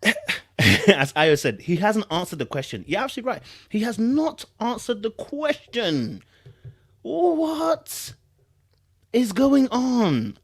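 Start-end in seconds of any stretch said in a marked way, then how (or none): 2.9-10.4 disbelief. Real, not acted. Agreeing in disbelief with chat.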